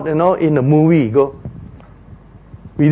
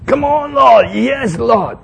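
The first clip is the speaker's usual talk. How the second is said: crying to God; 6 semitones higher, much slower than usual. Acted. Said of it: "he must be crying to God".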